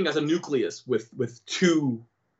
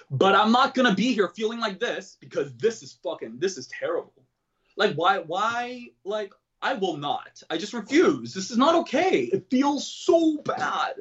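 exasperated refusal; 5 semitones higher than usual. Retold or imitated. Retelling his desperate refusal to suffer.

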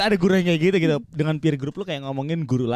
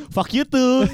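higher, laughing retort in mock student voice; 8 semitones higher, much slower than usual. Friend plays clueless student answering the teacher, laughing. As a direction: toss it back through laughter. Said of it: "muridnya nggak ngerti bahasa Inggris".

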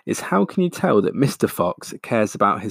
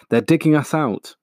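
high, loud urgent cry; shouted alarm; 7 semitones higher, 4 dB louder than usual. Acted. Mister Fox warns his wife of the diggers, loud shout. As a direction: raise the alarm in panic. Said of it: "he shouted".

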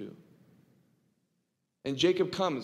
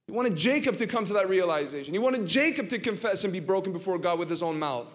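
preaching at full force; 5 semitones higher, 4 dB louder than usual. Acted. Preacher building to climax.

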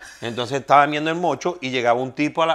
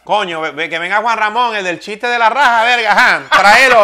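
building from normal to much louder and higher; excited producers; 6 semitones higher, 8 dB louder than usual. Retold or imitated. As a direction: get more worked up with every word. Producers calling for him, retold.

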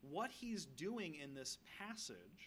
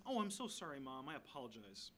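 mock apology; 3 semitones lower than usual. Young Jesus mock-apologizing to his mother, sheepish and joking. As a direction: pretend meek apology, tongue in cheek.

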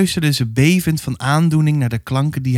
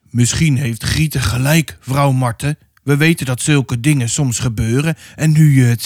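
priest with a husky voice. Acted. Pastor telling the mother of the baptism, a touch of gravity. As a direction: speak like a solemn village pastor. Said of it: "een wat heze stem".

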